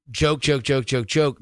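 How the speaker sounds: rapid, evenly repeated word; machine-gun delivery. Shown as a demonstration. Judge showing jokes left no room to breathe, rapid-fire. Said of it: "if it's just a machine gun".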